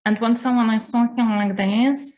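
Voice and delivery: mock the pinched high voice most people use; exaggerated mask voice. Shown as a demonstration. Coach mimicking the high throat voice of most people. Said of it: "I'm obviously exaggerating".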